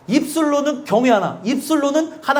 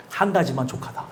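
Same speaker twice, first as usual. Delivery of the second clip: much softer and lower, a quiet rebuke; solemn word to Martha; 10 semitones lower, 7 dB quieter than usual. Retold or imitated. Jesus gently rebukes Martha, soft and low. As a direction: say it quietly, with calm authority. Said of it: "뭐라고 얘기해요?".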